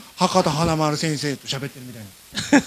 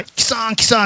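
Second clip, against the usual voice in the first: mock calling out; 5 semitones higher, 3 dB louder than usual. Imagined local shouts heard at station.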